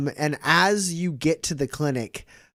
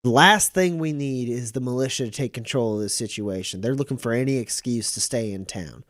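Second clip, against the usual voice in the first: a hint of a firm sheriff giving orders; brisk sheriff sending them off; lightly voiced sheriff.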